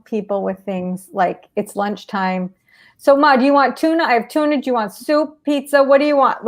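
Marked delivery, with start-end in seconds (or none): 1.5-6.5 fast, lifted string of choices for mom; too many choices. Shown as a demonstration. Caregiver overwhelming mom with a rush of options. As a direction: rattle off every option at once. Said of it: "just say".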